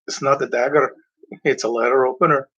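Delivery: lightly put-on Spanish accent, voicing the lady; a hint of a Spanish accent, teasing; understated Spanish-accented quip; mock Spanish accent. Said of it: "She didn't say it with that accent".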